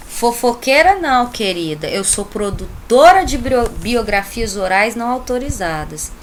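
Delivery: lightly acted sassy correction; a touch of offended diva; mock indignant. Acted indignant retort of gossip example.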